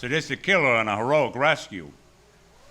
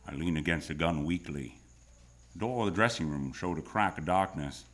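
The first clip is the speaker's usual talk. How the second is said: low, hushed noir narrator; hardboiled story narration; 5 semitones lower, 4 dB quieter than usual. A narrator's reading. Narrator watches frightened girl creep in, tense narration. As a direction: confide the tense scene in a low voice.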